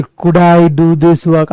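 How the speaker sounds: very slow, stiff formal question; mock-formal question to a friend; slow overly formal ask. Shown as a demonstration. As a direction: drag out the formal request. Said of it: "दोस्त को ये बोलोगे".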